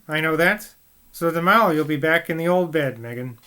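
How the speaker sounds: a hint of a jovial rustic dad; lightly voiced West Country father. Voices Mr Garrett, dialect man.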